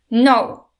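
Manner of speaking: loud fierce cry; defiant shout at the dragon; screamed no. A narrator's reading. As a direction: strike with the word. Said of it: "she screamed".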